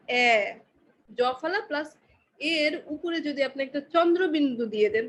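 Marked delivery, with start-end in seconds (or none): 0.1-0.5 "এ" as Bengali এ with jo-fola, like "ay"; German ä sound. Shown as a demonstration. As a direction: say "এ" short and open like ä. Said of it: "তাহলে উচ্চারণটা কি হয়?". (জ-ফলা দিয়ে "এ")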